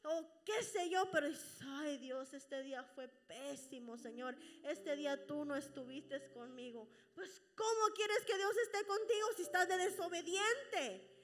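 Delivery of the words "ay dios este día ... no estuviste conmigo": complaining prayer. Retold or imitated.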